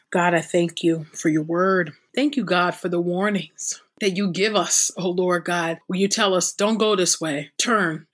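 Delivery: fervent spoken prayer, rising in pleading; earnest prayer. Real, not acted. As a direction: pray aloud for the listeners, pleading. Spoken prayer after reading.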